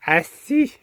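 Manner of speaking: "Assis" with a slushy lisped s, laughing. Retold or imitated. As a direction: say "Assis" with the s smeared toward sh. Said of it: "ton assis quand tu m'imites".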